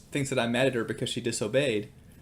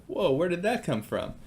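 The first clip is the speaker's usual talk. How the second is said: higher-pitched, taken-aback reaction; retold surprise; 6 semitones higher than usual. Dad reacting to daughter's demand, retold surprise. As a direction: react in mild mock astonishment.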